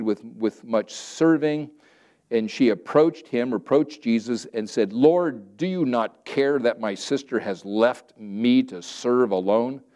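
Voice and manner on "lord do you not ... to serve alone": a hint of an aggrieved Martha; Martha's complaint. Pastor reading Martha complaining to Jesus, lightly acted. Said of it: "I like putting my own little emphasis in there".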